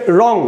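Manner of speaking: রং stopped on the final ng sound; closed final syllable. Shown as a demonstration. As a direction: end রং on a held-back "ng", no vowel after. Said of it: "উচ্চারণ থেমে যাচ্ছে".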